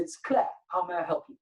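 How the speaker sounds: a touch of a sing-song phone greeting; a hint of the receptionist Claire answering; mock receptionist.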